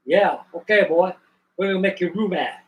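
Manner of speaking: lightly voiced Cajun Southern chef; Cajun Southern accent. Chef hiring a new man, imitated Cajun Southern accent. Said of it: "Cajun Southern accent they had".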